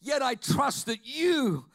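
pleading and hurt, building loud; anguished prayer. Pretend. Preacher voicing a wronged believer's prayer, anguished. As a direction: cry out to the Father in pain.

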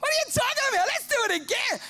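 high, loud mock brain voice; cartoonish brain pushing again; brain's voice. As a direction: brush off the regret as the brain.

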